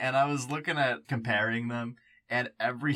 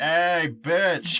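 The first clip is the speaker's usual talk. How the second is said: put-on slacker street voice, higher and louder; 4 semitones higher, 8 dB louder than usual. Retelling a video where an impersonator shows up: Jesse Pinkman impression. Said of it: "Jesse Pinkman shows up like".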